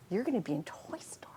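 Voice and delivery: hushed whisper of a secret announcement; whispered news. Retold or imitated. Retelling the casting call, in a hushed whisper. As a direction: breathe it out like thrilling news.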